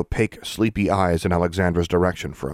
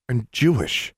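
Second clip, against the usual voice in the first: determined schoolgirl; 5 semitones higher than usual. Acted. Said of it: "spoke with determination".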